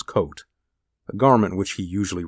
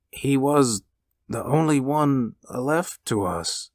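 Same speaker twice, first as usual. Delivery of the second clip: higher, halting, gently sorrowful; grieving father; 8 semitones higher, slower than usual. A narrator's reading. Father to the visitor, gently mournful. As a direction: say it slowly, pitched up in grief. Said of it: "turning gently to the visitor".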